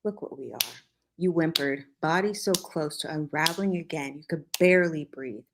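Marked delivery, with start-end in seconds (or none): 0.0-0.6 raw, broken. A narrator's reading. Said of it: "voice raw and broken".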